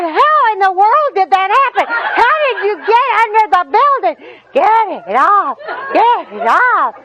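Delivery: can barely get the words out for laughing; laughing helplessly. Retold or imitated. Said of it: "Well, I got tickled".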